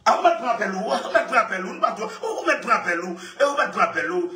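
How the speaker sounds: chuckling while repeating the line; sing-song chant broken by laughs; laughing through a refrain. Real, not acted. Joking with friends, laughing through the repeated line.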